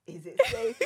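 very high, small questioning voice; mock timid. Storyteller checks outside after fleeing the dogs, mock timid. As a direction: peek out with a squeaky mock-nervous question.

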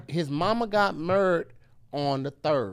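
"murdered" squashed to one slow syllable; married as murdered. Shown as a demonstration. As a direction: make married sound like "murd". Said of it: "So murdered is married".

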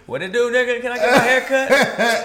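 high, put-on street voice; hammed-up casual booking call; slang-switched robot. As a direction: play the assistant talking slang, amused. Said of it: "a race generator".

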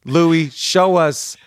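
excited, egging a friend on to show his photo; excited urging. Real, not acted. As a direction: playfully insist he show it. Laughing, urging him to show.

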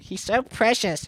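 high, slow, gushing fangirl voice; mock fangirl cooing; mocking cutesy fangirl. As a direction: coo it like a smitten fan girl. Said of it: "little cutesy girls online where they're just like".

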